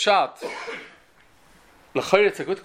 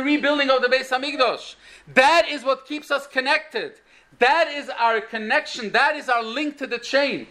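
higher-pitched, insistent sermon delivery; impassioned preaching; 6 semitones higher than usual. Real, not acted. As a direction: drive each point home like a preacher at the climax. Preacher rises to climax.

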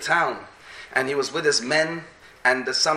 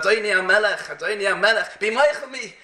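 mildly acted plea, rising higher; pleading; 4 semitones higher than usual. Soldier begging his king's forgiveness, pleading. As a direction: beg the king for mercy, retold.

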